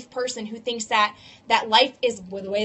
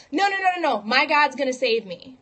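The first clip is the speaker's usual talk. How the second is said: stubborn refusal; 3 semitones higher, 4 dB louder than usual. Retold or imitated. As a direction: brush off the rescuer, sure God will come. Stubborn man refuses the raft.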